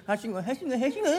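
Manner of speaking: high, springy hawker call climbing in steps; bouncing ladder-seller's cry. Acted. Peddler hawking ladders, stepping upward in a springy rhythm. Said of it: "ポンポンと蹴上がるような調子で".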